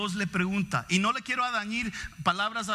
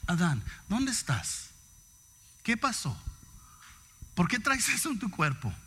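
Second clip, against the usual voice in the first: loving questioning. Retold or imitated. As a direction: ask gently, full of concern. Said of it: "tanto que amaba a Adán".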